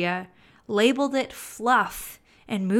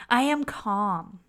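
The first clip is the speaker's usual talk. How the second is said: slower, even; slow calm read. Shown as a demonstration. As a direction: say it gently. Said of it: "Let's try another example".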